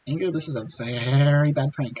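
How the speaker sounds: "very" stretched on a long, throaty roll; drawn-out trilled very. Acted. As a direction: roll hard through the word "very". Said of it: "I'm not gonna keep doing that".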